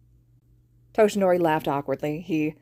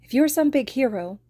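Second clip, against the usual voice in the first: wobbling, angry and tearful; 8 semitones higher, 4 dB louder than usual. Acted. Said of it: "voice wobbling on the edge of anger and tears".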